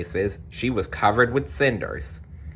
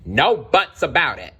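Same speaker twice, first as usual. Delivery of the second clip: higher, louder kingly shout; 6 semitones higher, 4 dB louder than usual. Acted. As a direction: cut him off as a loud king. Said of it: "shouted the king".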